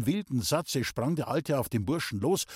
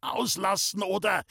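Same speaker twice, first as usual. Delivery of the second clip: hissed threat; 8 semitones higher than usual. A narrator's reading. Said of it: "zischte er dem Alten zu".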